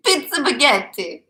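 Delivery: loud, drawn-out exclamation; slow shout. Real, not acted. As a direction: stretch it out loudly. Repeating phrase loudly.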